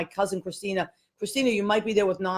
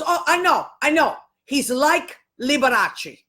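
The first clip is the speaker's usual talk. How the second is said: high, emphatic grandma impression; imitated grandmother; 5 semitones higher, 4 dB louder than usual. Grandma interrupting her grandchild about Scotty, imitated high voice. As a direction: cut in as a knowing grandma, pitched up. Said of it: "and she goes".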